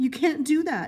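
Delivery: high cry, crying out with voice cracking. Narrating Winston crying out before the cage, in a high, cracked voice. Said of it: "he cried out in a high, cracked voice".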